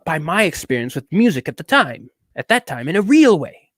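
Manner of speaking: affected, self-important critic; pompous reviewer character. Acted. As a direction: read it out with mannered emphasis.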